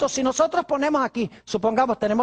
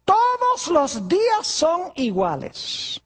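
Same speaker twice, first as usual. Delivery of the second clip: objecting churchgoer; 4 semitones higher, slower than usual. Retold or imitated. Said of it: "Algunas personas dicen".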